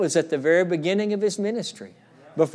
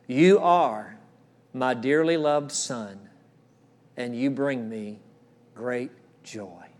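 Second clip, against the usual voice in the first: slow, gentle blessing that dies away; tender blessing; 3 semitones lower, slower than usual. Acted. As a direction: speak it over them like a father. Speaks God's words over the men.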